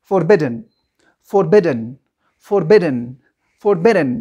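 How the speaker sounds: Forbidden said clearly with stress on -bid-, falling; model pronunciation. Shown as a demonstration. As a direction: model Forbidden slowly for the class to echo. (تلفظ واضح Forbidden برای شاگردان)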